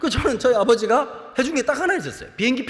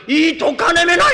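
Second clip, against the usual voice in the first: much higher, louder slow curse; mock furious soldier; 8 semitones higher, 8 dB louder, slower than usual. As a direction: spit it out at the stubborn woman. Soldier cursing the martyr. (북한 군인 흉내로 느리고 크게 욕하기)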